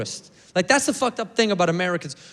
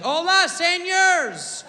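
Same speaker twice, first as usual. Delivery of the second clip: high, slow hammed-up gibberish Spanish; a friend imitating Brad's made-up Spanish in a restaurant, hammed up; Brad's fake Spanish; 11 semitones higher, slower than usual. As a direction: squeal out nonsense Spanish like a clueless gringo. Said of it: "Great voice".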